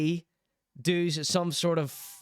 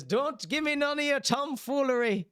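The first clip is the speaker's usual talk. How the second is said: mock scolding mum; 10 semitones higher than usual. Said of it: "She's Irish, like me".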